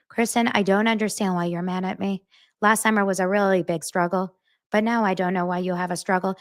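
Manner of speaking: level, unvaried delivery with no pitch movement, imitating Janet; monotone Janet impression. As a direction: speak in a flat drone like Janet does. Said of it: "Janet talks like this".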